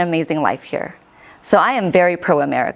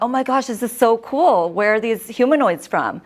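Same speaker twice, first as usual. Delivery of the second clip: excited; 5 semitones higher than usual. Retold or imitated. Excited question to booth worker.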